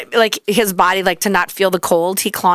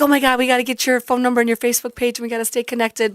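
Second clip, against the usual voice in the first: excited; 4 semitones higher, faster than usual. Retold or imitated. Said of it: "I'm like".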